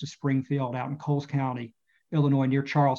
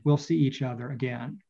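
story narration. A narrator's reading. End of the read chapter.

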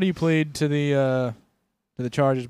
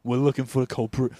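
mock constable; 3 semitones lower, 4 dB quieter than usual. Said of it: "they're like".

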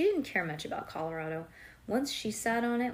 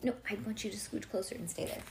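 ordinary delivery

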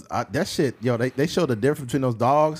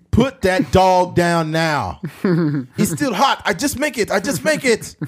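put-on old Southern soldier; 5 semitones higher than usual. Soldier from the old South, rising mock threat. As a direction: bark orders like an old-timer. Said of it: "It's like".

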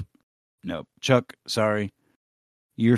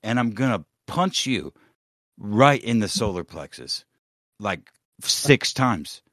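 mock threat; 2 semitones higher, 3 dB louder than usual. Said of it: "I'm real mad".

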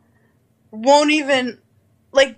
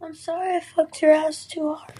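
put-on soft little-girl apology; cute voice; 5 semitones higher, 4 dB quieter than usual. Shown as a demonstration. Asked by her friend to say it in the cute voice. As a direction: say it sweet and quiet like a little girl. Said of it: "Say this with the voice".

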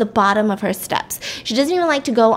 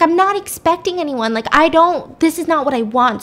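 higher-pitched mock panic; retold freak-out, pitched up; mildly exasperated and flustered; flustered protest; 5 semitones higher than usual.

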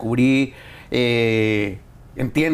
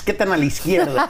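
laughing; 4 semitones higher than usual. Real, not acted. Teasing political question.

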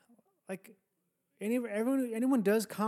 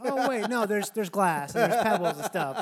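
mock surprise; 7 dB louder than usual. Acts out a listener's realization.

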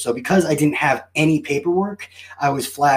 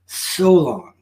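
mock lament; much slower than usual. Mock-dramatic lament, drawn out.

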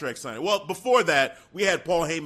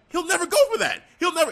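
panicked protest; 11 semitones higher, much faster than usual. Acted. Heyman's panicked protest voiced.

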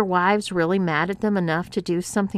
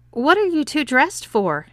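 surprised; 8 semitones higher, 5 dB louder than usual. A narrator's reading. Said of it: "asked Bob".

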